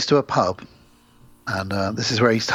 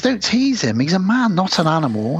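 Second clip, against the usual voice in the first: wife voice; 5 semitones higher than usual. Retold or imitated.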